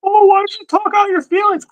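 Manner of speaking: high mocking nag voice; mocking women. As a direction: parody a nagging voice. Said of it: "women saying this dumb shit".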